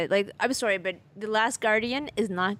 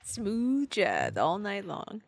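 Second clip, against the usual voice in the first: smooth jazz DJ; 3 semitones lower, 5 dB quieter, much slower than usual. Pretend. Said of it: "midnight radio host for, like, a jazz station".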